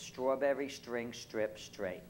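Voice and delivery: strawberry, string, strip, straight with thick shtr onsets; Brooklyn pronunciation. Retold or imitated. Professor listing local words, strawberry, string, strip, straight in Brooklyn pronunciation. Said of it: "that's how you speak".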